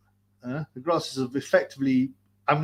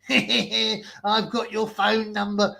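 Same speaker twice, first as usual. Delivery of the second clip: slow, higher gloating boast; boasting mock voice; 5 semitones higher, slower than usual. Mocking the rival boasting on the call, high, slow gloat. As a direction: gloat like you're winning. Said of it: "And he was boasting".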